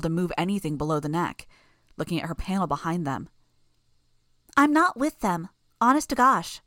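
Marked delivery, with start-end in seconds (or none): 4.5-6.6 put-on high, loud little-girl protest; a creepy child swearing innocence; eerie childish voice. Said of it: "Bonesaw's voice was eerie, childish".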